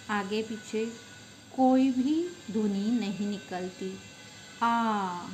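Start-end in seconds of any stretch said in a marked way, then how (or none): 4.6-5.3 आ held long and open, alone; vowel demo. Shown as a demonstration. Teacher showing students a pure vowel: आ held open. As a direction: sound a pure आ with no consonant. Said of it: "ये जो सारे स्वर है".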